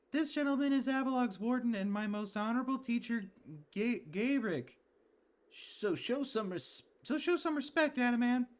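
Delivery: high, strained character voice introducing the warden; voiced game character. Streamer voicing a game character to the player, high and strained.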